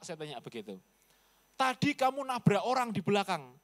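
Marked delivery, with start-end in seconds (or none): 1.5-3.5 mild retold accusation.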